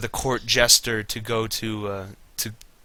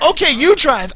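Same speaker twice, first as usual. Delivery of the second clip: mild mock reply; 12 semitones higher, 4 dB louder than usual. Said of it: "She's like".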